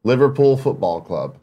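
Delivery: slow American accent, evenly spaced. Shown as a demonstration. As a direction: read British terms deliberately in an American accent. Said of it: "an American accent".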